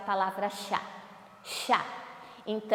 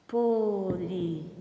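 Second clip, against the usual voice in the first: syllable by syllable; 5 semitones lower than usual. Shown as a demonstration. Teacher shows pupils the term, "Polissílaba" syllable by syllable. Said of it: "Ó, quatro sílabas".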